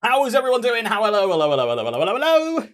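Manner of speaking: bright rising hellos, sing-song at the end; excited greeting. Real, not acted. Streamer greets viewers, excited sing-song hellos. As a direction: greet the chat like you're thrilled to see them.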